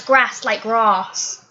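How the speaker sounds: "grass" drawn out slowly with a long "ah"; long-A British grass. Retold or imitated. Mimicking how Americans claim Brits talk, long-vowelled "grass". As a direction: say "grass" like "grahss", slowed down. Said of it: "everybody from America says that".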